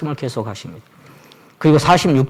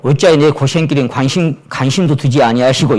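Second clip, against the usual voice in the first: complaint; 2 semitones higher, 6 dB louder than usual. Retold or imitated. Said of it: "이렇게도 버전이 돼 있더라고요".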